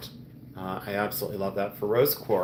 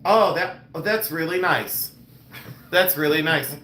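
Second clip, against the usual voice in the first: just-woken helper; 5 semitones higher, 3 dB louder than usual. Retold or imitated. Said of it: "the mother effer was sleeping".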